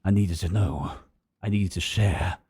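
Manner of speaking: noir detective. Acted. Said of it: "we love the noir voice".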